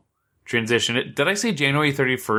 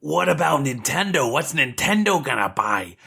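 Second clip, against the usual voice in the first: put-on nerd voice, a bit strained; nerdy voice. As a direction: play an excitable gamer nerd. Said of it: "another shitty nerd voice that's hurting my throat".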